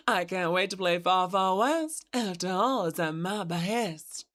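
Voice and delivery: gentle Kentucky belle charm; southern belle. Acted. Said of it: "Southern Gals vibes".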